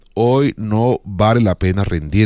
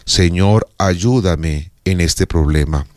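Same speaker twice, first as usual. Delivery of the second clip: slow plea; a humble prayer for help; heartfelt prayer; 3 semitones lower, slower than usual. Shown as a demonstration. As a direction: draw out the plea to God. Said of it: "la oración más profunda".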